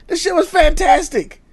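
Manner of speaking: laughing through the words. Real, not acted. Friend laughing about childhood soda binges. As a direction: laugh it out, half amused half appalled.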